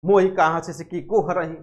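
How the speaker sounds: quick, sudden snap of the verse; blurted retort. Retold or imitated. Jayasi shooting the line back at the laughing king, blurted. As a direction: fire the line straight back at once. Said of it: "तुरंत कह दी धड़ाम से".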